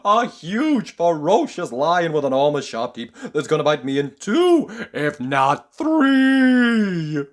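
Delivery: high, loud frantic babbling; panicked squeal. Acted. Mister Jelly imagining a lion, in rising panic. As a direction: spiral into hysterical panic.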